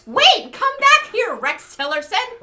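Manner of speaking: high, loud, slow call after someone; drawn-out mock yell. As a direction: shout after him as he leaves. Calling after Tillerson.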